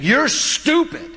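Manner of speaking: put-on high whiny child's voice, slow and drawn out; mock a small boy yelling at his mother; bratty kid yelling. Pastor imitates a kid at Walmart yelling at his mom, high and whiny. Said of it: "just yelling at his mom".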